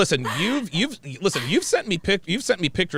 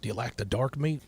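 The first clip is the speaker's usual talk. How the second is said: softer, lightly voiced Southern date; a hint of Southern suitor, trailing softer; white guy from Mississippi; 4 dB quieter than usual. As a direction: coax gently as a country good old boy. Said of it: "let's say I was a white guy".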